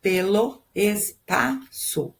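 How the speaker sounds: slowly divide "caminhando pelo espaço" into syllables; "caminhando pelo espaço" measured out, syllable after syllable. Shown as a demonstration. Teacher marks poetic syllables for students, saying "caminhando pelo espaço" slowly divided. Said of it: "eu faço a divisão".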